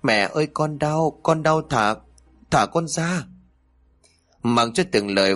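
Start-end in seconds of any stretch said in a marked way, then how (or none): 0.0-3.2 put-on high-pitched child begging to be released; acted, understated tearful begging; tearful pleading. A narrator's reading. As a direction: plead in pain in a raised child's voice. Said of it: "khóc lóc van xin".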